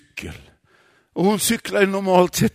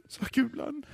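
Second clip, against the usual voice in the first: ordinary delivery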